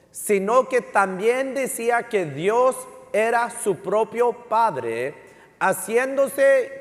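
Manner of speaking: slow, emphatic Bible reading; scripture reading. Real, not acted. Preacher reading John five to the congregation, slow emphatic scripture reading. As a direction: read the verse out slowly, phrase by phrase.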